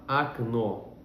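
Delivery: "Окно" said as "akno", first O sounding like A; "Окно" pronounced "akNO"; unstressed O as A. Shown as a demonstration. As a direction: say "Окно" with a short A, stress on the last syllable. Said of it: "pronuncio como um A".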